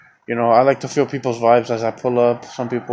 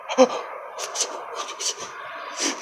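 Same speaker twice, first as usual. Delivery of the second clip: imitated distraught gasping; shocked gasp; 8 dB quieter than usual. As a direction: gasp like someone upset on the phone. Imitates distraught girl on phone.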